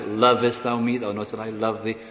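Lovest punched, then love leaned on in the reply; mock-pretty reading with stress on "Lovest". Shown as a demonstration. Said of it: "people put different emphasis on it".

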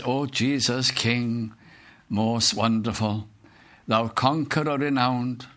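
slow, reverent hymn verse; preacher reciting a hymn to the congregation, slow and reverent; hymn recital. Acted. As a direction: read the hymn words slowly and devoutly.

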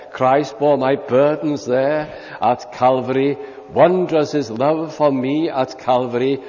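measured, solemn reading of a hymn verse; hymn recitation. Acted. Preacher reciting hymn words to the congregation, solemn and measured.

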